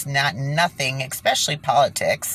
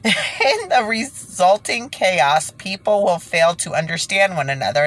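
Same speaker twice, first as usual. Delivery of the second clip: measured reading voice; reading aloud; 3 semitones higher than usual. Acted. Reading quoted document.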